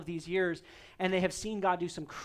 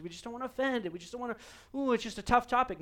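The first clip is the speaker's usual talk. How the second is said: mock timid reluctance; 4 semitones higher, much faster than usual. Mimics pastors avoiding hard topics.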